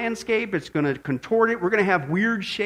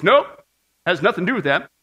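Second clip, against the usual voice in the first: dismissive nope; 5 dB louder than usual. Acted. Voices evolution dismissing the evidence.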